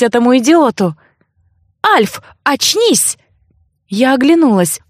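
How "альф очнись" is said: high, slow call to wake him up; urgent plea. Acted. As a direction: drag out his name, begging him to snap out of it. Heroine shakes Alf awake. (героиня будит Альфа: высоко, медленно)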